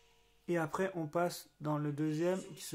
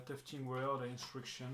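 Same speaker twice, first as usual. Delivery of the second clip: reading English words with a thick French accent, slowly; a Frenchman sounding out English on a box; 3 semitones lower, 9 dB quieter, slower than usual. Real, not acted. Vlogger reading the manual title aloud, in heavily French-accented English. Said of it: "Mon a-, mon accent est complètement dingue".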